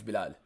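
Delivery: Bilal as bi-LAAL, stressed on laal; Arabic pronunciation. Shown as a demonstration. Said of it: "In Arabic".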